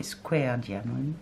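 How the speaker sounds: slow, French-flavoured attempt at an English accent; mock-proud English accent. Shown as a demonstration. Reading the diamond kit's label to viewers, self-mocking English accent. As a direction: read it slowly in your "super" English accent. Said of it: "avec mon super accent anglais".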